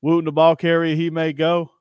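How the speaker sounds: imitated announcer running the name together; all one breath. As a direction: say it as if it's all one word. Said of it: "all in one breath, all in one".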